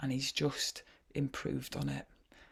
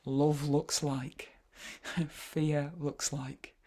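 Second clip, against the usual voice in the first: slow; much slower than usual. Shown as a demonstration. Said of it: "slow prompt phrases".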